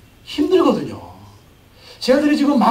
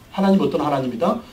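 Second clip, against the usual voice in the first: ordinary delivery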